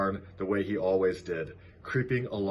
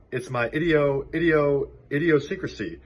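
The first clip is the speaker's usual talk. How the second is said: stammering gander; 6 semitones higher, 4 dB louder than usual. A narrator's reading.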